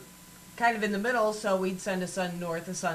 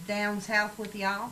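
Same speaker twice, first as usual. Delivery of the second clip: Southern drawl; 2 semitones higher, slower than usual. Shown as a demonstration. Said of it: "I can also get down".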